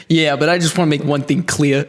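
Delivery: line read in a Boston accent. Shown as a demonstration. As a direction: drop the r in clear, Boston style. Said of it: "I like it".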